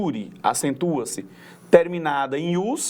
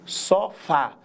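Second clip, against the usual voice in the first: "sofá" split, with weight on "fá"; teacher stressing the end of "sofá"; stress on last syllable. Shown as a demonstration. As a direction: sound out "sofá", landing on the final "fá". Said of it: "na última sílaba".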